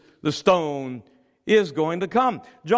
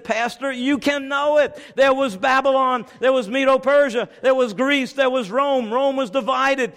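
raised, insistent proclamation; fervent preaching; 3 semitones higher than usual. Acted. Preacher assures doubters of prophecy, fervent preaching. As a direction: drive the certainty home.

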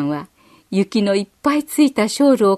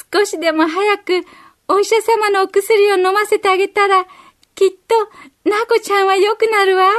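put-on much higher, small child voice bracing herself; a four-year-old talking herself into courage, high; 勇気を出す幼い女の子の高い声; little girl's inner voice; 10 semitones higher than usual. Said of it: "心の中で言いました".

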